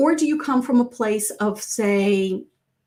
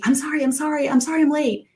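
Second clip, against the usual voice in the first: higher-pitched, repeated apology; over-apologetic; 5 semitones higher, faster than usual. Acted. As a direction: play a latecomer apologizing over and over. Demo of over-apologetic latecomer.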